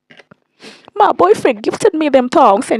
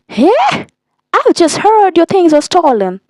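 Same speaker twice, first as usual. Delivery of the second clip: a much higher, mildly mocking mom voice; imitating mom; 7 semitones higher than usual. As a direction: do mom calling in, pitched way up.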